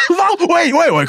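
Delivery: startled high outcry; surprised shout. Real, not acted. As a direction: yelp out in surprise. Protesting against the misogyny jab.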